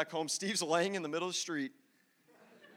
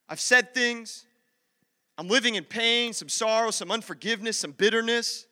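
raised, emphatic confession in short bursts; impassioned preaching; 3 semitones higher, 5 dB louder than usual. Real, not acted. Preacher confesses own struggles to the room, impassioned preaching. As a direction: preach it out phrase by phrase.

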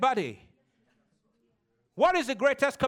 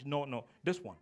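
mock child whine; 9 semitones lower, 10 dB quieter than usual. Child refusing, mimicked.

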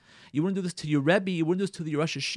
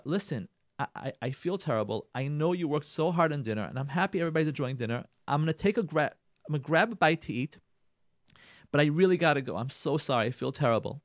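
gentle apology; 3 dB quieter than usual. Shown as a demonstration. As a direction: excuse yourself tenderly and quietly. Models gentle apology to wife.

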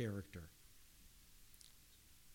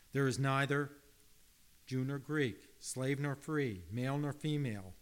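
preaching loud; 2 semitones higher, 6 dB louder than usual. Acted. Preaching scripture at full force.

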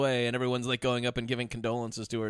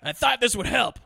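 put-on whiny kid voice; 8 semitones higher, 4 dB louder than usual. Quoting the kid.

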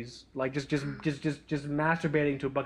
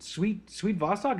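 hopeful prompt; 5 semitones higher, slower than usual. Retold or imitated. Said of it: "I'm like".

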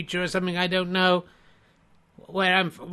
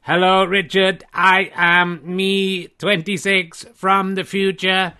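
robot voice; 4 dB louder, slower than usual. Acted. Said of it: "I'm not sure you talked like that last time".

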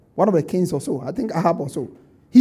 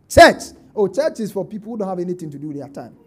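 scoffing mockery; faster than usual. Preacher mimics people who scorn church, sneering.

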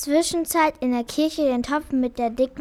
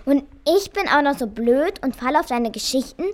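dawning realisation turning into indignation; indignant accusation. Acted. Mouse accusing the cat of eating everything, indignant.

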